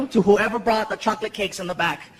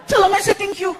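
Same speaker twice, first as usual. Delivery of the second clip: mock sleepy kid; 10 semitones higher than usual. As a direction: drag it out like a groggy child. Frankie voiced.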